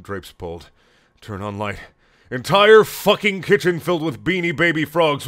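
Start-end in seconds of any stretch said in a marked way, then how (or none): 2.3-5.3 loud, high rising alarm; excited. Acted. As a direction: build panic as you reveal it. Climax of scare.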